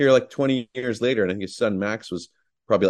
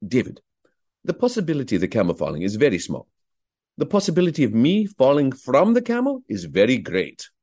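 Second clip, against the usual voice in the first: Omar's dry, courteous reasoning, a little higher at the end; Omar impression; 4 semitones higher than usual. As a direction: argue the point as Omar, lightly voiced. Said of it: "I'm doing an impression of Omar".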